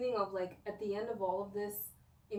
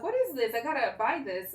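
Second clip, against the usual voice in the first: excited discovery; 2 semitones higher, 5 dB louder than usual. Retold or imitated. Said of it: "So I was like".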